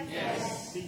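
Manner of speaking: breathy whisper; whispered yes. Shown as a demonstration. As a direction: whisper it back. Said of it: "then you will say".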